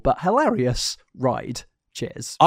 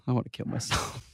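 mock despair; 3 semitones lower, 15 dB quieter than usual. Despairing aside after bad joke.

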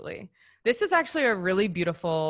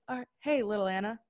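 reassuring; 6 semitones higher, faster than usual. Retold or imitated. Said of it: "that's how I would speak to her".

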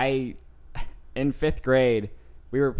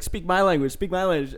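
lightly voiced, a bit higher, insistent demand; demanding kid; 4 semitones higher, faster than usual. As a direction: repeat the demand like an annoyed bully. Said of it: "and he was like".

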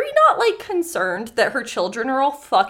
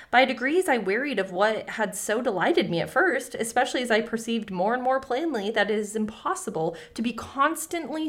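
story reading. Acted. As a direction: read the tale steadily to listeners. Reads fairy tale aloud.

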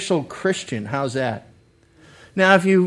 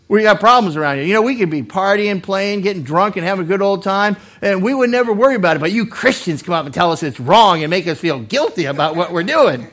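louder, rushed mock grievance; complaining worldly objector; 3 dB louder, faster than usual. Worldly man griping at Christians for spoiling the party, complaining. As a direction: gripe as the aggrieved partygoer.

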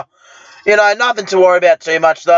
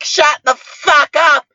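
angry rant; 6 semitones higher than usual. Retold or imitated. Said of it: "And I'm like".

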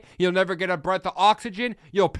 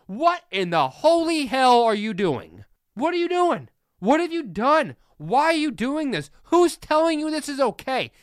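exasperated coach; 6 semitones higher than usual. Pretend. Imagined head coach Kirby Smart scolding Jalen Carter on FaceTime, high exasperated disbelief. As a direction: pretend to be a coach losing patience with his player. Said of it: "I am FaceTiming Jalen Carter and saying".

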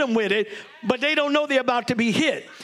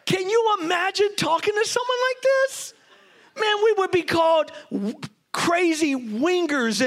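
amazed aside; 7 semitones higher than usual. Real, not acted. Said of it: "Can we time out here".

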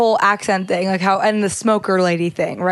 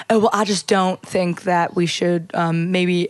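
put-on Southern accent; 2 semitones lower than usual. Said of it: "doing the Southern accent with Hess".

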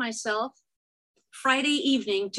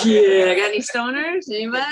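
laughing; 6 dB louder than usual. Real, not acted. Laughing, calling out to crowd.

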